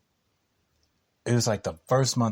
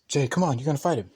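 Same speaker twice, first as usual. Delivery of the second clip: lightly voiced pushy mom, higher; insistent mom; 5 semitones higher, much faster than usual. Landlord calling her son to fight, insistent. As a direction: imitate a mother calling her son out, pitched up.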